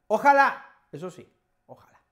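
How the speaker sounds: "Ojalá" flung out high and loud; a sudden wishful outburst; hopeful cry. Acted. Student replying to the teacher, a high loud hopeful cry.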